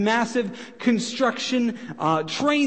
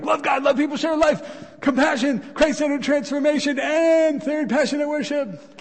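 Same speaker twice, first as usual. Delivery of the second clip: pushy, higher-pitched slogan rattle; blasting them; 6 semitones higher than usual. Acted. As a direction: blast them with the list, overzealously. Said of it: "I'm not saying you blast them".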